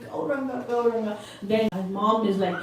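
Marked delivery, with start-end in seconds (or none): 0.1-1.2 soft, weakened call of the name; half-hearted imitation of tearful calling; mock crying. Boy crying on for his Lord, lightly imitated crying. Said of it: "he's just crying".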